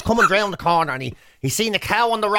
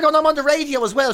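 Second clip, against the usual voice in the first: indignant boast; 8 semitones higher than usual. Retold or imitated.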